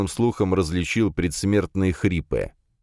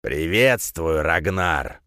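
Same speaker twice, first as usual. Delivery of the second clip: sneering villain; much slower than usual. Acted. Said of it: "услышал я голос".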